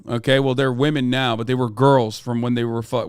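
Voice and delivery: normal talking voice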